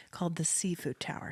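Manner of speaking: hushed dramatic reveal; dramatic whisper. Acted. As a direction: whisper it like a secret.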